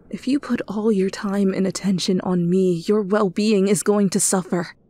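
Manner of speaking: starts hushed, ends loud; building to loud. Acted. Pleading, rising to outburst.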